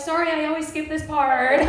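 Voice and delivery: laughing apology. Retold or imitated. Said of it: "I was like".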